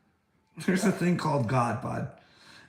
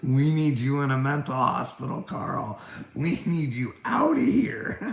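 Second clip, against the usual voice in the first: louder put-on voice, going much higher at the end; mock order; 4 semitones higher, 4 dB louder than usual. Vlogger mimicking people sending him to a hospital, mock-shrill.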